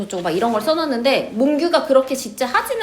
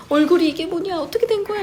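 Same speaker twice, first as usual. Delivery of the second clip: shocked father; 7 semitones higher than usual. Retold or imitated. Father shocked at son's face.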